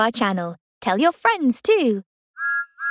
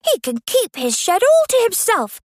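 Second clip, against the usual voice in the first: Percy voice; 9 semitones higher than usual. Acted.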